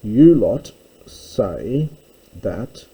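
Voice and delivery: "you lot" said slowly and firmly; teacher underlining "you lot"; stress on you lot. Shown as a demonstration. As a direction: press "you lot" to mark the plural. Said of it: "now this is plural here".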